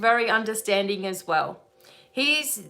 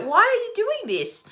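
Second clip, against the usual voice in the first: mock scolding angel; 10 semitones higher than usual. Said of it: "you'd be like".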